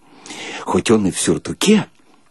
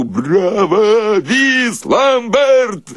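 cheering shout; 9 semitones higher, much slower than usual. Retold or imitated. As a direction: cheer the trombonist in delight. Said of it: "кричу". (восторженный крик «браво»)

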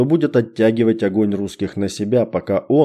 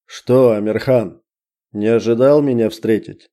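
heartfelt. Acted. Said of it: "Задушевно поинтересовался".

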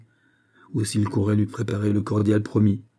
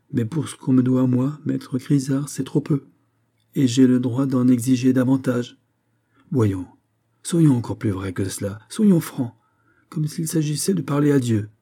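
louder, higher, pressing demand; insistance exigeante; 4 semitones higher, 4 dB louder than usual. Acted. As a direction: press the doctor for the whole truth. Malade exige la franchise du médecin. (ton insistant et exigeant, voix plus haute)

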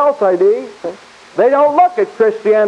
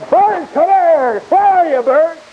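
calling out sternly; 8 semitones higher than usual. Acted. Chasing bird with broom.

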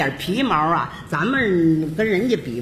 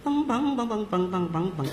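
drum imitation; 4 dB quieter than usual. Shown as a demonstration. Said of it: "是这么抱着".

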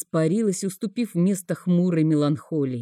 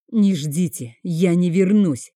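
sharp reply; 4 dB louder than usual. Acted. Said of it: "резко ответил я".

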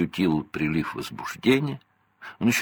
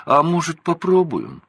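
much higher, louder cheeky suggestion; smirking; 11 semitones higher, 5 dB louder than usual. A narrator's reading. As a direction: tease mom with a grin. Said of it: "хмыкнул второй".

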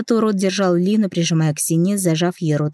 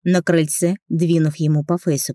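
plain reading voice

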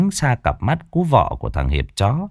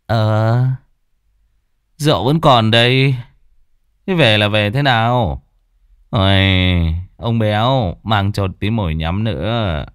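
put-on drunk slurring. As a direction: drag the words like a drunk. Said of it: "giọng lè nhè".

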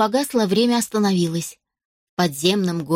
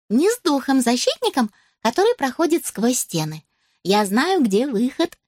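put-on higher elf girl voice; 5 semitones higher than usual. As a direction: speak like a cheerful little elf.

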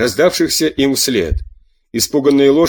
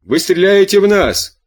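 higher-pitched indignant exclamation; crying out; 7 semitones higher, 3 dB louder than usual. A narrator's reading. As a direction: exclaim it high, as a challenge. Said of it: "вскричал немецкий офицер". (возмущённый возглас повыше)

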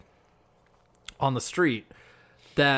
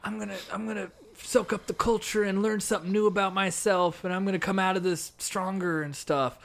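higher, soft mock-earnest voice; dreamy self-discovery imitation; 5 semitones higher, 6 dB quieter than usual. Girl imagining the trip as her movie, mock-earnest. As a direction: narrate your journey softly, mock-earnest.

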